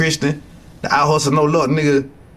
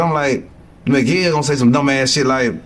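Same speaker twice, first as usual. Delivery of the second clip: normal talking voice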